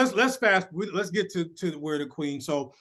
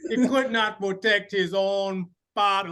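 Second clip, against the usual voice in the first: raised character voice landing hard on "father."; heavy on "father"; 4 semitones higher, 4 dB louder than usual. Retold or imitated. Fan quoting M'Baku's reproach, "father." heavily stressed. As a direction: declaim it, weighting "father." heavily. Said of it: "he was heavy on that father".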